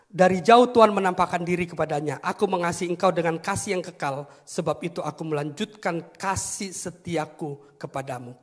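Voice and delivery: loud, declaiming verse reading; scripture reading. Acted. Preacher reading scripture to the congregation, declaimed reading. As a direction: proclaim the verse to the hall.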